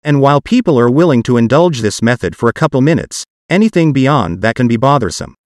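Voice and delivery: synthetic text-to-speech voice; computer-generated voice. Real, not acted. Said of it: "my parts will be done with a computer-generated voice".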